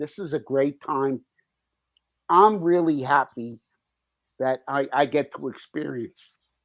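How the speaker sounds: moved, choked-up, emotional delivery. Speaking to a supportive listener, getting emotional. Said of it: "I'm sorry, I get emotional".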